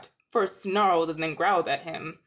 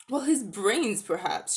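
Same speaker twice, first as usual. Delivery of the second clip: mild reply; slower than usual. Acted. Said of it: "she replied mildly".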